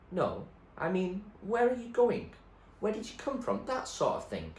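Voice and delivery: put-on old man probes where she came from. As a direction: press gently, oddly sing-song. William presses her.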